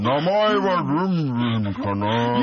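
slow, lightly voiced cute anime girl; a hint of a sweet anime heroine. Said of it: "花の子ルンルンとか声出したもんね".

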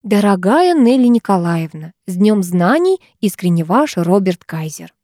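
measured, ceremonious card reading; a touch of formal solemnity. A narrator's reading. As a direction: read the greeting out with mild pomp. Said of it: "торжественно зачитала".

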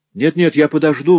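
protesting wife. A narrator's reading.

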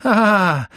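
loud high shriek when slapped; girl's shriek; high scream of pain. A narrator's reading. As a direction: cry out from the slap. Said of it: "закричала она".

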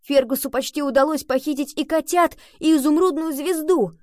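high, loud excited outburst; voiced with rising excitement; exclaiming. A narrator's reading. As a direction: exclaim it in amazed excitement, pitch climbing. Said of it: "воскликнул он".

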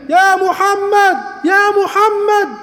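very high, slow long-distance call; calling from afar. Retold or imitated. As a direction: hail him from far away. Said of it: "وجاي من بعيد".

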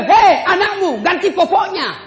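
mock wife shouting across the house; wife calling out. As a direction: call the husband to change the diaper. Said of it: "dia bilang".

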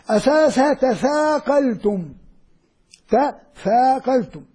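slow "تثاقلتم" spelt out; base form. Shown as a demonstration. Teacher explains the base form, slow. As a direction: say "تثاقلتم" slowly, ta-tha-qaltum. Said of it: "بدي أول أفهمها بالعربي".

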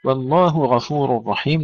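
والله غفور رحيم with the ه of والله cleanly separated from the غ of غفور; separated throat letters. Shown as a demonstration. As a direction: keep the ه and the غ apart in والله غفور. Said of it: "نفصل الهاء عن الغين".

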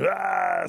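short, high, loud "ah"; quick burst of crowd noise; brawl yell. A narrator's reading. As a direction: imitate shouting from inside.

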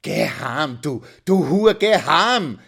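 halting, loud, angry order; dully forced out. A narrator's reading. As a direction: force the words out in bursts, rising. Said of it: "stieß er stumpf heraus". (stoßweise, wütend herausgepresst)

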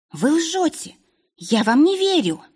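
high, choked cry of accusation; angry tearful cry. A narrator's reading. Princess crying out at the duke, angry and tearful. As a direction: fling it out through angry tears. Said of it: "и выкрикнула, глотая злые слёзы".

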